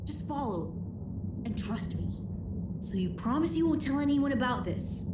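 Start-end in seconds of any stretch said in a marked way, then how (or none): 0.0-3.0 whispering a secret. Acted. Sneaking through a secret tunnel.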